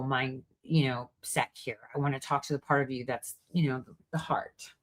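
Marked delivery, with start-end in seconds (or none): 2.0-4.7 whispered, tender aside; soft whisper. Real, not acted. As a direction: drop to a whisper for the heart. Soft turn to the heart.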